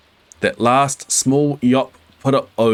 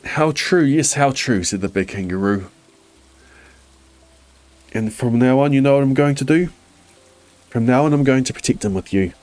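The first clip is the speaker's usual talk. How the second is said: raised, brighter kangaroo voice; big kangaroo voice; 3 semitones higher than usual. Acted. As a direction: play the big kangaroo, lifted. Kangaroo speaks in the story.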